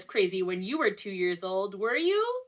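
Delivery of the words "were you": plain reading voice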